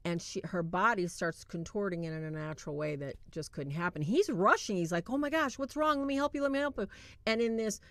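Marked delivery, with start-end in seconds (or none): 5.1-6.9 higher-pitched mock panic; imitated alarm. Boyfriend rushing to the stricken girl, imitated alarm. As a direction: act out a worried rush to help. Boyfriend rushes to help her.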